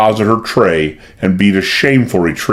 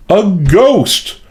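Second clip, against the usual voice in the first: frightened insistence; 10 semitones higher than usual. A narrator's reading. Maid insisting to the detective, high frightened cry. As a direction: insist in terror. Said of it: "persisted Lizzie".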